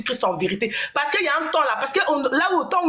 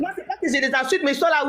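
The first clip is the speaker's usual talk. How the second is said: laughing; 3 semitones higher than usual. Real, not acted. Laughs while defending herself.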